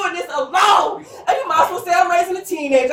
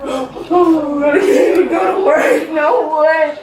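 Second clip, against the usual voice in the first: upset; much slower than usual. Real, not acted. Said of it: "hey, calm down".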